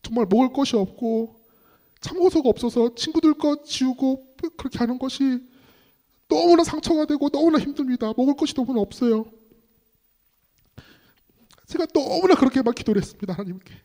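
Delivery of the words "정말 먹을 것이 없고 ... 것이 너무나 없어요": high-pitched, burdened plea to God; retold desperate prayer, pitched up; pleading prayer. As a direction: pour out hardship in a reenacted prayer. Retells his desperate boyhood prayer.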